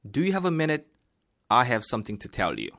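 slow, clear role read with feeling; expressive textbook read; dialogue reading. Shown as a demonstration. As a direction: read line as speaker A.

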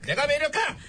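lightly chanted marching call; marching slogan. Acted. King leading the duck-walk, chanted slogan. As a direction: call it out for the quackers to answer. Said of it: "구호도 붙여".

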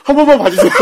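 high, loud laughing plea; mock begging. Retelling a man begging high school students, hammed-up plea. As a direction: plead abjectly through helpless laughter. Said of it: "갑자기 무릎을 꿇더니".

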